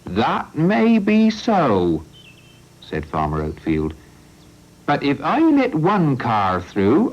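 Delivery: a stubborn farmer refusing to let cars cross his land; Farmer Oatfield. Acted.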